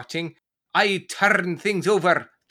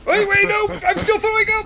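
high panicked yelling; panicked shout; 13 semitones higher, 5 dB louder, much faster than usual. Acted. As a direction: cry out in high alarm. Acted sketch, panicked.

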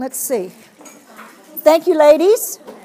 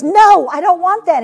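mildly frustrated, louder refusal; frustrated child; 2 semitones higher, 5 dB louder than usual. Acted. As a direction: push back like an exasperated child. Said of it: "is really frustrated".

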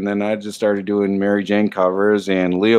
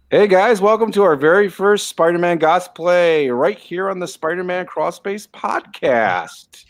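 muffled under a mask; talking behind a mask; through a face mask; 8 semitones higher, slower than usual. Real, not acted. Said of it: "He is talking through a mask".

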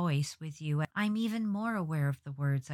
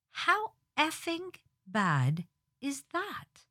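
mock exasperation; 9 semitones higher, slower than usual. Real, not acted. Exasperated rhetorical question.

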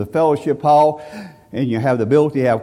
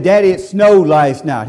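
put-on child's plea; 2 semitones higher, 5 dB louder than usual. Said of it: "I said".

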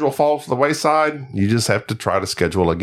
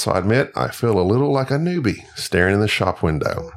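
put-on Aussie letter-reading voice; playful Australian accent; 2 semitones lower than usual. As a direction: read the listener's email as a mock Australian. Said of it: "I'm gonna do the voice".

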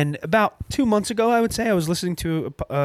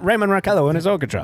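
radio announcer; faster than usual. Retold or imitated.

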